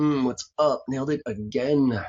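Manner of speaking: put-on slow, smug, proud, self-satisfied boasting tone. Retelling a reaction after leaving a voicemail, imitating own proud boasting. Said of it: "was I proud of that".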